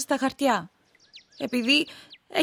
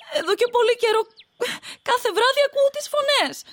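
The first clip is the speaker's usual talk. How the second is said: tearful fear; 8 semitones higher, 5 dB louder than usual. Acted. Fearful wife tells of spirit voices.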